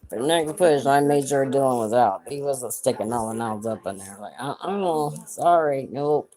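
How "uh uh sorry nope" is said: sassy refusal. Retold or imitated. Refusing doctor, retold.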